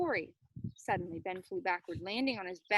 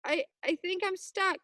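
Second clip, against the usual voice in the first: scared cry; 8 semitones higher, 5 dB louder than usual. Acted. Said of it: "Corey screamed".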